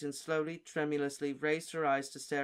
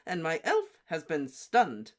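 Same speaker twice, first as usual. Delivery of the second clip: slow, louder, stiff words through barely moving lips; jerky clipped speech; 2 semitones higher, 6 dB louder, slower than usual. Acted. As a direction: speak jerkily, hardly moving the lips. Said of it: "still talking in the same jerky fashion".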